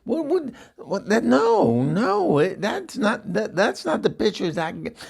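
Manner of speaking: very high, panicked sputtering; frantic squeal. Retold or imitated. Eunice sputters at the tattoo man, frantic and high. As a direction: squeal in outrage. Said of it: "I said".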